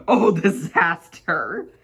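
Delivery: slow, drawn-out alarmed cry; hammed-up terrified wail; mock scream. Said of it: "he screamed".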